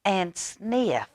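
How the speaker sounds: high slow frog voice; peeper voice. A narrator's reading. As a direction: keep the tiny frog voice. Peeper continues.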